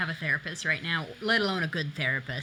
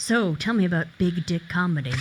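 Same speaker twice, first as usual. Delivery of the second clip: calm public radio host voice. Wishing for a smoother radio voice, trying out an NPR radio voice. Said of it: "I do wish I had more of an N P R voice".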